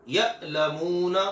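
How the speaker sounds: यअलमून with a hard catch on the first vowel, drawn out; Arabic hamza with a sharp glottal stop; hamza with a jolt. Shown as a demonstration. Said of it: "सख्त होगी और झटके वाली".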